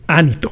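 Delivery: "Anito" stressed on its first syllable, the A; acento en la A. Shown as a demonstration. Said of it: "con acento en la A". ("Anito" con el acento en la primera sílaba, la A)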